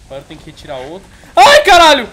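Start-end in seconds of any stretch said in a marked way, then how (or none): 1.3-2.1 sudden high, loud yelp; pained yell. Real, not acted. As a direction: cry out at the hit. Gets hit in the game.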